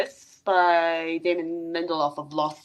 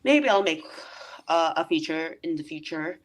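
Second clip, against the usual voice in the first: halting, trailing off softer; weird-sounding delivery; 3 dB quieter than usual. Real, not acted. Director on a possible feature, oddly halting. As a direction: break off, then let it drop away. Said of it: "That sounded weird".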